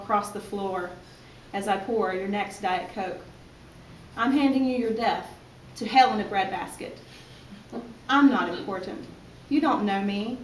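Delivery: emphatic spoken-word delivery; indignant spoken-word rant in measured beats, easing off at the end; frustrated poem reading. Acted. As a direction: punch the start of each phrase, fed up with the customer. Frustrated poem about the job.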